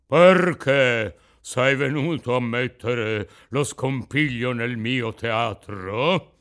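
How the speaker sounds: put-on huge, big booming ogre voice, heavily stuffed-up. Narrator reading the puppeteer's question to the puppet, big ogre voice with head cold. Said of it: "con un vocione d'orco gravemente infreddato di testa".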